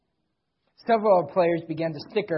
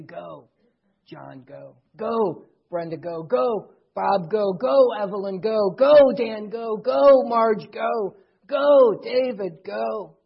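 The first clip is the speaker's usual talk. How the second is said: building cheer; 2 semitones higher, 4 dB louder, slower than usual. Acted. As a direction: cheer each person on, growing stronger with every name. Cheering congregation on, name by name.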